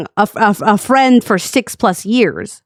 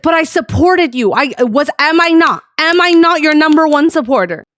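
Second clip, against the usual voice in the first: retold indignant protest, pitched up; guilt-tripping; 4 semitones higher than usual. Friend guilt-tripping the streamer over his support, indignant. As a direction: plead your loyalty like a wronged supporter. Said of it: "the guilt tripping started".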